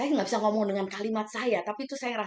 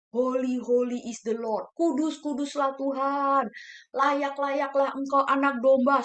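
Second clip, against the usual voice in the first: worshipping elders; 5 dB louder, slower than usual. Retold or imitated. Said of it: "ngomongnya gini".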